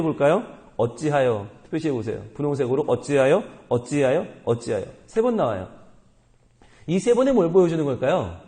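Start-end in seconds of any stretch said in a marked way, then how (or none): none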